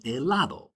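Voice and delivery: helado stressed on LA; second-to-last syllable stressed. Shown as a demonstration. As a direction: lean on the middle syllable of helado. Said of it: "on the second to last syllable".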